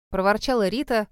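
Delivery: ordinary delivery, nothing marked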